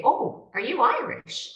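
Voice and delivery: high, drawn-out mock question; curious stranger. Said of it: "people would hear me speak and they'd say".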